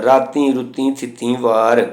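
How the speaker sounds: nasal ee ending on ਰਾਤੀ, ਰੁੱਤੀ and ਥਿੱਤੀ; nasalised final vowels. Shown as a demonstration. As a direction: let ਰਾਤੀ, ਰੁੱਤੀ, ਥਿੱਤੀ each end through the nose. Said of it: "ਸਭ ਬਿਹਾਰੀਆਂ ਉੱਤੇ ਬਿੰਦੀ ਦਾ ਉਚਾਰਨ". (ਰਾਤੀ, ਰੁੱਤੀ, ਥਿੱਤੀ ਦੀ ਬਿਹਾਰੀ ਨਾਸਕੀ ਬੋਲੋ)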